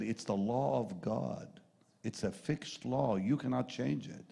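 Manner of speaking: slow, measured restatement of the law; calm restatement. Retold or imitated. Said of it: "he said".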